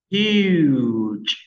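Huge, long u, said slowly and loudly. Shown as a demonstration. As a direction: repeat Huge clearly for the class. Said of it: "Chúng ta đọc lại".

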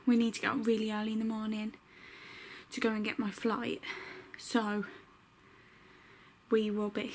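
gasping between phrases, out of breath. Real, not acted. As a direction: talk while catching your breath. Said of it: "sorry, I'm talking like this. I get so out of breath".

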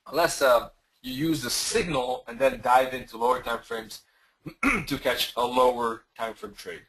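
rough, hoarse, throat-clearing voice. Real, not acted. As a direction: speak with a tired, hoarse throat. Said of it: "Losing my voice".

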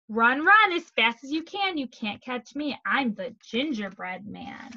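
storybook refrain that winds down; taunting gingerbread man. Acted. Gingerbread man's repeated taunt.

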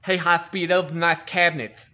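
lightly voiced chief, slight lisp; a hint of a lisping old chief. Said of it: "he talked with a really bad lisp".

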